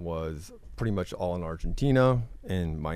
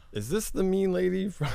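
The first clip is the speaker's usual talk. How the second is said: mock mean-lady question; 12 semitones higher than usual. Quoting her own text, mock.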